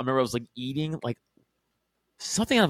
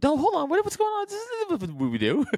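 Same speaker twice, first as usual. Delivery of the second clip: much higher mock kid voice; dumb little Italian. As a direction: play a flustered little Italian kid, pitched way up. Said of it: "I was a dumb little Italian".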